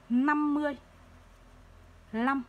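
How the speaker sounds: "lăm" said apart, starting with a clear l; LĂM with initial l. Shown as a demonstration. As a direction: stretch "Năm mươi", pause, then "lăm" with an l. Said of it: "Ai đọc là năm mươi năm là sai". (đọc tách rõ "lăm" với âm l)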